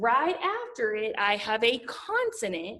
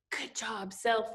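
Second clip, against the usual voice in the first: Good job, self said much softer as a quiet example; quiet demo; 6 dB quieter, slower than usual. Shown as a demonstration. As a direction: softly model the words for the kids. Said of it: "I want you to say".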